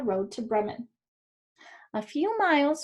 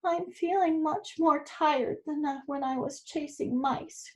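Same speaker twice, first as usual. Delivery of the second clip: put-on a touch of a grumbling old cat, trailing softer; 4 semitones higher, 4 dB quieter than usual. Tired cat grumbles to the others on the road, mildly. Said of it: "grumbled the cat".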